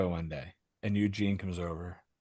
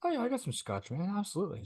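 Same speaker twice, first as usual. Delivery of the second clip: eager mock reply; 10 semitones higher, 6 dB quieter than usual. Teller voices his eager reply.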